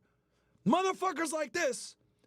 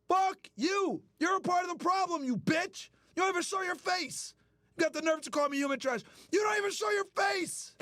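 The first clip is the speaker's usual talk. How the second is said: higher, rising furious shouts; angry shouting; 5 semitones higher than usual. Real, not acted. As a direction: shout down the critic in real anger. Angrily shouting at a critic.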